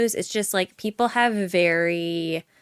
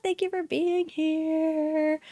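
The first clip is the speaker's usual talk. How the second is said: sing-song thanks; 7 semitones higher, 4 dB quieter, slower than usual. Acted.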